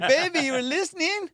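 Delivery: put-on thanking Alexa like a girlfriend, high and gushing; sweet-talking lover. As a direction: gush over her like a boyfriend. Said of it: "I'm like".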